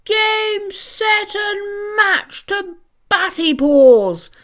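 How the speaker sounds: high, loud, slow umpire announcement; umpire's call. Acted. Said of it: "cried the umpire".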